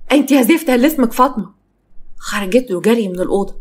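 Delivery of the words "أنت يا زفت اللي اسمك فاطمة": raised, higher voice, moderately loud; angry call. Acted. Husband calling his wife from outside the room, angry raised voice. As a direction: summon her roughly from another room. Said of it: "نادى عليها بصوت عالي".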